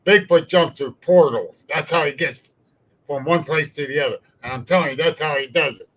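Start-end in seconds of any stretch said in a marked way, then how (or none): 0.1-4.2 louder, emphatic retold declaration; imitating a know-it-all's forceful claim; forceful insistence. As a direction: state it like settled gospel. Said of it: "very forcefully saying".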